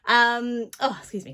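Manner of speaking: breathless after running upstairs; out of breath. Real, not acted. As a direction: talk while catching your breath. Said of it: "catching my breath".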